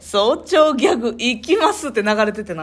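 talking through lingering dental anesthesia; words a little slack from a numb mouth. Real, not acted. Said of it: "麻酔が効いているということで".

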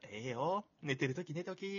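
imitated kindly Kansai reassurance; gentle Kansai dialect. Imitating his friend forgiving his oversleeping, gentle Kansai dialect. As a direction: let them off softly in Kansai dialect. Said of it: "優しい関西弁すぎてさ".

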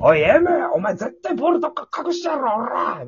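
loud delinquent bark of a senior, imitated; mock yell at M. Senior delinquent chasing M for hidden balls, mock angry yell. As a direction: play the thug senior yelling at M.

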